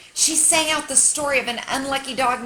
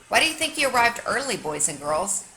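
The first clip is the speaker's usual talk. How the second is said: teacher question. Acted. Teacher asks class.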